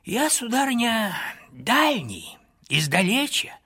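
put-on high, quavering old wanderer; old man's voice. A narrator's reading. Old wanderer answering the lady, in an old man's voice. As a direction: speak as a frail old pilgrim. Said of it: "другой старческий голос".

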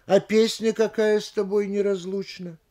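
level question carried by КАКАЯ; question without rising. Shown as a demonstration. Lecturer demonstrating a question word, level tune. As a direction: keep НЕРАЗЛУЧНА level, no questioning lift. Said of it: "произношу эти предложения почти совсем не повышая голоса".

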